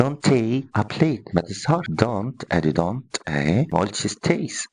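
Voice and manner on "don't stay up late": slow example sentence. Shown as a demonstration. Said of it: "أمثلة لو سمحت".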